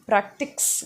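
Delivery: practice said PRAK-tiks with an extra k; wrong pronunciation. Shown as a demonstration. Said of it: "which is wrong".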